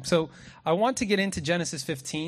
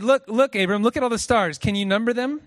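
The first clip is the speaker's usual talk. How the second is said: much higher and louder, a mock-excited tease; sarcastic teasing; 6 semitones higher, 8 dB louder than usual. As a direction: hype it up playfully, tongue in cheek. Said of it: "That's a joke, by the way".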